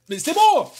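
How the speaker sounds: mock outraged yell. To viewers teasing him over the joke, a loud playful high protest. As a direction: shout stop, hamming it up.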